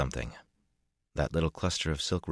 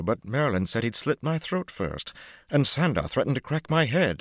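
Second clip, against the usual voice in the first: high, loud, gushing showman; Lucca's voice; 4 semitones higher, 3 dB louder than usual. A narrator's reading. Lucca gushing to Matt about the High Lady, excited.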